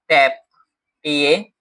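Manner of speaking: कैप said twice, then spelled out as सीएपी letter by letter; teacher says कैप, then spells सीएपी; word then spelled. Shown as a demonstration. Teacher showing word family to class, spells word aloud. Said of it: "word families की बात करता हूँ".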